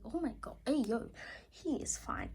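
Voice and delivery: high swooning whisper; fangirl swoon. Real, not acted. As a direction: swoon over a handsome character. Fangirling over character.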